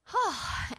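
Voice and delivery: high, audible sigh of emotion; moved sigh. Real, not acted. Storyteller moved by her own tale, heartfelt sigh. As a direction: let out a big sigh. Moved after retelling pastor's message.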